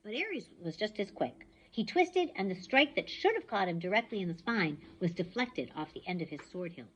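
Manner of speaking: ordinary delivery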